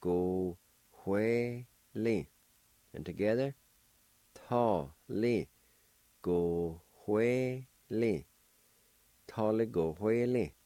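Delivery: syllable drill with aspirated "hue"; faint H before the W. Shown as a demonstration. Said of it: "a faint H sound right for the W".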